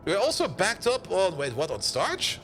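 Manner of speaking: normal talking voice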